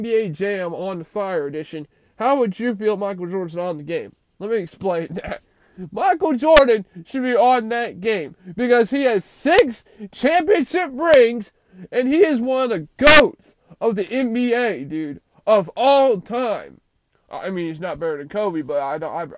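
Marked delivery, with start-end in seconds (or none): 5.9-16.8 louder, higher, stretching championship rings; excited. Real, not acted. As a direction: hype up the GOAT argument. Hyped praise of Jordan.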